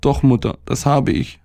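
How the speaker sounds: put-on high, mildly tearful boy; a touch of mock crying in a child's voice; pitiful weeping. A narrator's reading. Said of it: "sagte er und weinte gottsjämmerlich". (leicht gespielt weinerlich, hohe Stimme)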